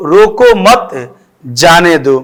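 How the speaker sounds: measured reading with "रोको" and "मत" stretched; comma pause demo. Shown as a demonstration. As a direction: draw out रोको मत before saying जाने दो. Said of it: "हम यहाँ पर थोड़ा रुकेंगे".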